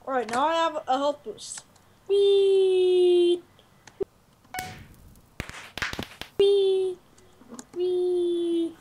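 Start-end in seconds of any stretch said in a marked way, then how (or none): 2.1-8.8 scared giddy laughing. Real, not acted. Flying joyfully.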